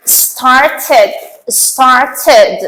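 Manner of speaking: started with a full ed syllable at the end; ending sounds id. Shown as a demonstration. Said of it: "اد". (started با صدای اد در انتها)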